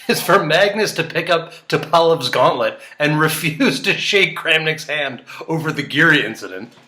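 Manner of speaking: can't keep a straight face while suggesting it; laughing. Real, not acted. Giggling through a chess fantasy.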